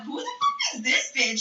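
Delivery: high-pitched indignant mock outburst; indignant friends. Friends indignantly reacting in retold scene.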